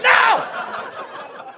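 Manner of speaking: very high, mock-appalled cry; horrified shout. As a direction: cry out as if recoiling. Recoils at the man's eyes.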